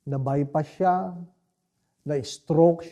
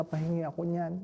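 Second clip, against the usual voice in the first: mild, murmured request for the forbidden food; quiet request; 7 dB quieter than usual. Retold or imitated. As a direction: ask for it quietly at the table, almost to himself. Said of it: "sabi niya".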